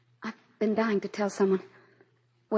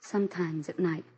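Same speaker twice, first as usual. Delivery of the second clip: soft, slow, almost whispered; eerie hushed confession; 3 semitones lower, 7 dB quieter than usual. Acted. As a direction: confess the voices. Confessing haunting secret.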